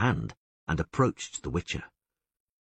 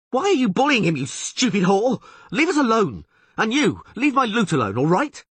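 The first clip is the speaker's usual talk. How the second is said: much higher, louder fretful yell; 8 dB louder than usual. A narrator's reading. Dandelion yelling for the kicking to stop, high and loud. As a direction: yell in panic. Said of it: "Dandelion yelled fretfully".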